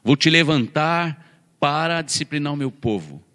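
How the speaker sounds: slow, solemn voice of God, lightly voiced; a hint of a solemn divine voice; God speaking. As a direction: pronounce it like a divine decree, measured. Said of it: "ele fala assim".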